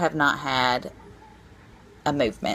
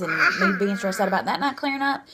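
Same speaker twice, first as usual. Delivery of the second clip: choked up; 4 semitones higher than usual. Real, not acted. Stressed about sick baby.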